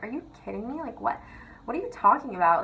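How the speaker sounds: retold disbelief. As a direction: react to an absurd accusation. Retells reaction to false accusation.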